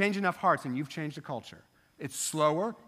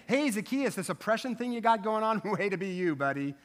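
higher, breezy mock pat on the back, a laugh in it; mock buddy approval; 3 semitones higher than usual. Jesus mock-approving Zacchaeus, breezy and joking. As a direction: tease the idea of Jesus shrugging off sin. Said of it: "He doesn't say".

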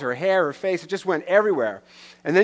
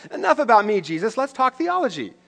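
breezy deflecting; 6 semitones higher than usual. Retold or imitated. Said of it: "In other words, laughs".

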